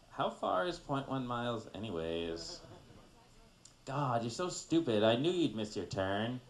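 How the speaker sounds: lightly voiced ditzy blonde; be a clueless, exasperated blonde GPS; a hint of mock airhead; blonde stereotype. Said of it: "Okay, a blonde version".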